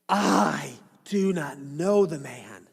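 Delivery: slow, dragged-out denial with a hint of strain; cursing denial. Peter denies Jesus a third time, slow and heavy. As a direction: draw it out as he curses himself. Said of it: "began to evoke a curse on himself".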